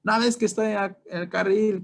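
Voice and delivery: high, loud mock yell at the other driver. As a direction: shout it like a driver who has just been cut off. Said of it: "te van a gritar de todo".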